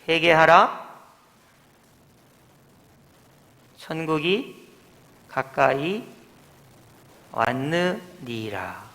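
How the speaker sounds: solemn proclamation. Acted. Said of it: "이렇게 선포하셨습니다".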